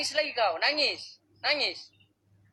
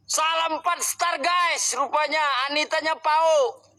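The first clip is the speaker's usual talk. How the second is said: loud outro; 3 semitones higher, 5 dB louder than usual. Real, not acted.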